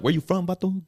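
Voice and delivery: hammed-up LA homie sizing someone up; LA street tough. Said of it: "they're like".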